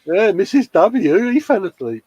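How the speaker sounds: sing-song tell-on-him to a mum; telling tales to mum. Retold or imitated. Telling his mum the co-host fell asleep, mock tattling. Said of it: "And I'm telling my mum now".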